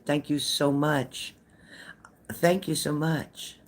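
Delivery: slow, syrupy mock gratitude; sarcastic thanks. Real, not acted. Thanking the chatter who said she needs therapy, slow and sarcastic. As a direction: drag it out so it stings.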